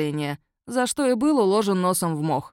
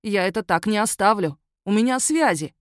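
huffy werewolf; 3 semitones higher, 4 dB louder than usual. Acted. Werewolf threatens complaints.

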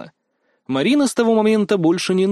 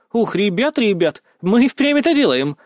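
higher, thrilled vlogger commentary; excited chatter to camera; 6 semitones higher, 3 dB louder than usual. A narrator's reading. Blogger at the gates telling viewers they're really doing it, excited. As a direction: gush to the viewers. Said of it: "затараторила она на камеру словно шёпотом".

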